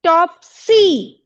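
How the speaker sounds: टॉप सी slowly split, each part drawn out, टॉप stressed; stress on first syllable. Shown as a demonstration. Teacher checks her own example aloud, टॉप सी with stress on टॉप. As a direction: hit टॉप, pause, then long सी in टॉप सी. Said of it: "इसमें ज्यादा जोर लगाना पड़ रहा है".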